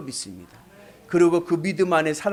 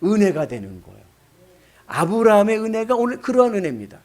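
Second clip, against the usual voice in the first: usual speaking voice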